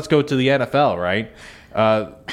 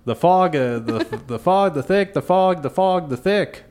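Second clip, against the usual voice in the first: mock jumbled teasing; 7 semitones higher than usual. Shown as a demonstration. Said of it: "The thickest fog".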